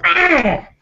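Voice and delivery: high, loud yelp of pain; pained shout. Acted. Noble shocked by lightning on his hand, pained yelp. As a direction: yelp as if zapped by electricity. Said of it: "he lets out a shout".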